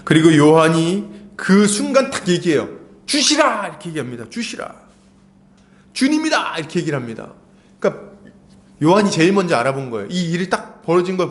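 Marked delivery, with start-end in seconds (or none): 3.1-3.7 a higher, excited call of recognition; John calling out from the boat, excited; excited cry. Acted. John calls out recognizing Jesus. 4.3-6.6 breaks into a higher cry on the second word; John realizing it is the Lord; John crying out as he recognizes the Lord; excited cry. Acted. John calls out recognizing Jesus.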